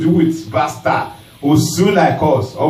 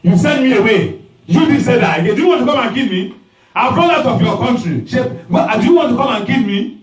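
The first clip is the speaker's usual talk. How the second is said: mock angry shout, higher; imitating a shout; 5 semitones higher, faster than usual. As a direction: throw the question back at them. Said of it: "You will shout at them".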